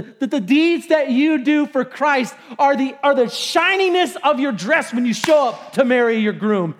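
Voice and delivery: rising to a joyful shout; overjoyed preacher shouting the good news; excited preaching. Real, not acted. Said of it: "That gets me all happy".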